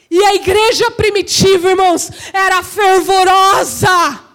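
shouted call to the church; full-force preaching. Real, not acted. Preacher voicing Pedrão calling the church, impassioned shout. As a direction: ring it out with fervour.

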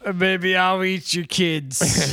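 slurred, mumbling boxer impression; goofy mumbled boxer voice, dragging the words; Rocky. Podcaster told he sounds like it, mock boxer mumble. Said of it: "Sound like Rocky".

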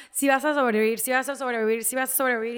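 loud insistent retold plea; desperate urging. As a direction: urge a dying loved one, repeating it forcefully. Retold desperate plea during resuscitation. (súplica insistente y fuerte)

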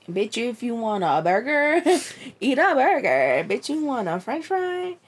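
playful sass, pitch climbing as it goes; hammed-up indignant retort; mock indignation. Acting out friends' indignant reaction.

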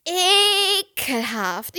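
high, hugely stretched cry of disgust; long, high-pitched yuck. Real, not acted. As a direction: drag the word out in revulsion. Disgusted at retold voicemail.

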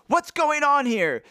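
high, mock-wrathful exclamation; wrathful shout. Man to intruding boys, mildly hammed-up wrath. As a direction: read it as a hammed-up wrathful demand. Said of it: "the man wrathfully".

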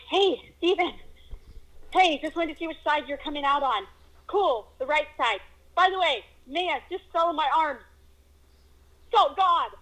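rushing to tell a friend the news; excited retelling. Retold or imitated. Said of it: "and I'm like".

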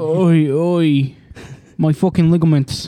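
mock British veering into Australian; botched British, nearly Australian; Australian-sounding accent. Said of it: "you sound like an Australian".

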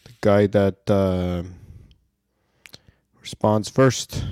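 lightly voiced slow-witted friend, long pauses; halting, as if working out the obvious; clueless student. Idiot friend answering the teacher in class, lightly played cluelessness. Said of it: "my idiot friend in the front was just like".

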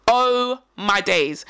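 very slow, stretched-out amazement; astonished reaction. Retold or imitated. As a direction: draw every word out in disbelief. Retells astonished reaction to woman.

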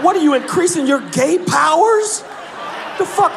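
high, incredulous mocking. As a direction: tease him disbelievingly. Mocking the knot tightening.

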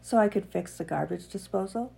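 steady read-aloud narration, earnest; reading a piece aloud. Acted. Podcaster reads a piece to her listeners, read-aloud narration. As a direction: read it like a personal essay.

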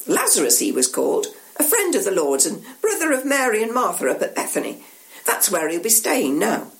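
swooping, dramatic telling; excited storyteller. Acted. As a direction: build the wonder of the miracle. Local tells the miracle story.

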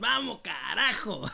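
slow cheer into a laugh; celebrate, then laugh. Real, not acted. Celebra al ganador. (grito de celebración con risa)

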